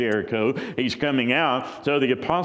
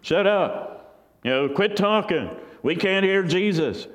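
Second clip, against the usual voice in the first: rude hushing; 6 semitones higher than usual. Acted. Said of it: "Changed their tune there".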